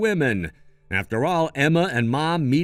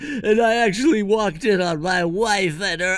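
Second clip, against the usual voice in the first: upset retelling; 6 semitones higher than usual. Acted. John recounts catching his wife.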